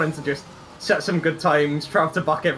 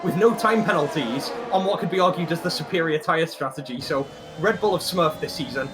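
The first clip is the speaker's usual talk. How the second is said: lively race-call delivery; motorsport commentator. Acted.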